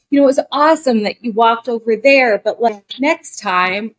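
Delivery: mildly imitated sugary praise before a correction; sugarcoated note. Female director sugarcoating a note to an actor, mild mock sweetness. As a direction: coat the note in sweetness, half-mocking. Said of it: "have to sugarcoat".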